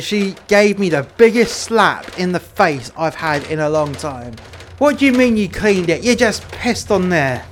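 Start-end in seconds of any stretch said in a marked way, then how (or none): 4.8-7.4 outraged wife. Retold or imitated. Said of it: "she said, you know?".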